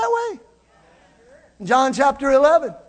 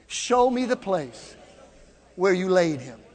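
call and response; 6 semitones lower, 6 dB quieter than usual. Shown as a demonstration. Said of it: "Say that with me".

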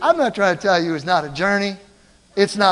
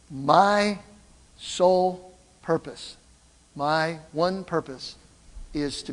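slow repeat; 3 semitones lower, 4 dB quieter, slower than usual. Shown as a demonstration. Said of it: "I'm gonna say that one more time".

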